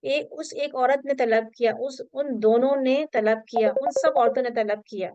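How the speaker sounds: slow reading. Shown as a demonstration. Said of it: "ये जगह आप करेंगे इस तरह से".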